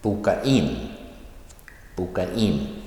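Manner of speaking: light Boka, stressed falling in; stress on particle. Shown as a demonstration. Teacher showing verb plus particle, stress on in. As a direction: move the weight off Boka onto in. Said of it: "the stress comes on the particle".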